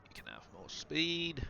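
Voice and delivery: talking through hiccups; hiccupping while talking. Real, not acted. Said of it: "got the hiccups now".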